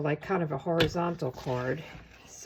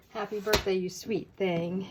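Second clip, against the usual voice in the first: Southern accent. Shown as a demonstration. Crafter playfully rereading the card greeting, in a mock Southern accent. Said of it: "say that in a Southern accent".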